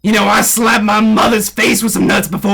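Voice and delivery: hammed-up country Southerner; tall-tale bragging in a thick Southern accent; Southern man accent. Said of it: "I being the real Southern man I am".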